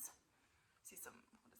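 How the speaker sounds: whispered, slowed guessing; hush, as if spotting something hidden. Shown as a demonstration. To the child, whispering over the picture.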